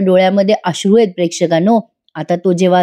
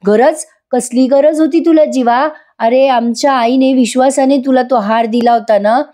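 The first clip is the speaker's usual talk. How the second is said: mild mock scolding; 5 semitones higher than usual. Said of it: "तोंडसुख घेतात".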